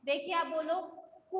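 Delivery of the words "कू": कू with a drawn-out oo; long vowel. Shown as a demonstration. Teacher correcting a pupil's answer, long-held कू. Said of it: "बड़ा हुआ है".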